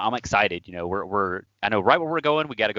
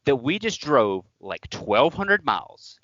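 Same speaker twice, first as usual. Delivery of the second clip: heated retold scolding, a bit higher; replaying a furious lecture at the friend; retold angry rant; 5 semitones higher than usual. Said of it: "I definitely not calm at this point".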